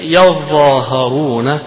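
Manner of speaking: يظاهرون drawn out slowly with a long ā after ظ; a Quran teacher modelling يظاهرون for students; qira'at reading demo. Shown as a demonstration. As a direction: recite يظاهرون with the long vowel held, slowly. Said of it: "هذه قراءة ابن عامر".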